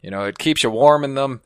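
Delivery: easygoing cowboy storyteller. Pretend. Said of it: "Do a cowboy thing".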